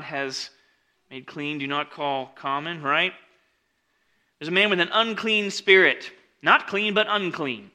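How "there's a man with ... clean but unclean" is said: loud, high stress on Not and unclean; preacher pressing the contrast; emphatic preaching. Real, not acted. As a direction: hammer home the word unclean.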